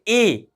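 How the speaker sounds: "ए" drawn as a long ay; long A sound. Shown as a demonstration. Teacher shows the long vowel, ay on "ए". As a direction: say "ए" like the letter name A. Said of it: "ये long sound है ए का".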